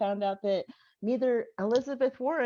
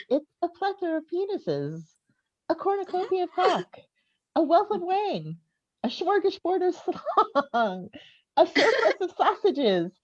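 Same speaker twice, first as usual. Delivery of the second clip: higher and higher, savoring each alliteration; mounting comic list; 6 semitones higher, 4 dB louder than usual. Acted. Comic on stage, building a filthy list to the crowd, gleeful. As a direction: relish every dirty alliteration.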